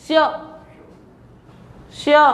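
"श्य" pressed out with a y after the sh; sh with y-glide. Shown as a demonstration. Teacher showing students where pressure falls, y-glided "श्य". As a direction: press the tongue towards the palate for "श्य". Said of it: "यहाँ पड़ेगा pressure".

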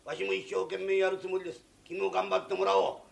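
booming finish; an applicant talking like the boss; pompous boss type. Acted. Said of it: "あれのが俺より社長らしいじゃないか". (社長気取りの偉そうな口調)

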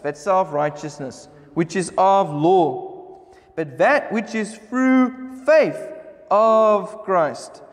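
slow, deliberate reading of scripture. Acted. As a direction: weigh each phrase, drawing out key words. Reads scripture aloud to congregation.

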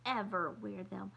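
rising into a high indignant protest; sputtering. Acted. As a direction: build the tantrum up to the end. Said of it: "Kirsty sputtered".

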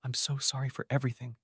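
sobbing. A narrator's reading. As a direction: cry the apology into his coat. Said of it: "she sobbed".

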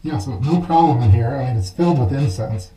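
muffled voice behind a mask; through a gas mask. Real, not acted. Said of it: "you're definitely able to hear".

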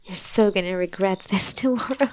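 teasing whisper with a chuckle; laughing whisper. Acted. Teasing a drunk partner with a whispered laugh.

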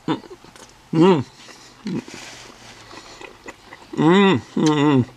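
smacking lips while eating. Real, not acted. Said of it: "Sorry for my lip smacker".

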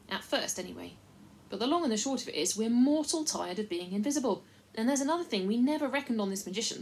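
lightly voiced rustic chief, earnest and worried; a simple country fellow pleading his case; a hint of a rough country leader.

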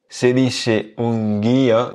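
"guía" with a slow, leaned-on "í"; stress on the i. Shown as a demonstration. Teacher stresses the "í" in "guía" for students. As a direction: lean on the "í" of "guía", slowly. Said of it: "on insiste un petit peu plus sur ce i".

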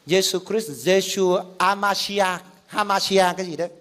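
tries "Amashia", then "Hamashia", unsure; halting attempt at "Hamashia"; fumbled Hebrew names. Shown as a demonstration. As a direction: stumble through the Hebrew names. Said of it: "tôi đọc vẫn chưa được".

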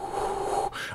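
long unvoiced puff of breath; a soft, windy exhale with no voice; blowing into the mic. Shown as a demonstration. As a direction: blow softly across the microphone. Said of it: "when I go".

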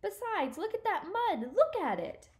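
high-pitched hysterical protest, held back in volume; acted screaming. Stuart to Harriet about the mud, restrained screaming. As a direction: pitch it up into a contained mock scream. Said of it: "He was screaming now".

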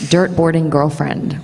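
put-on "dirt boarding girlfriend" with American R's; practised American take on the phrase; American accent. Shown as a demonstration. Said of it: "hard American accent thing".

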